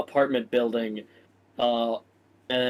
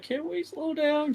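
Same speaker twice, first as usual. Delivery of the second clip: whining complaint; 14 semitones higher, 5 dB quieter than usual. Acted. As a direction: whine it like you can barely keep up. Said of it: "He's, like, whining and complaining".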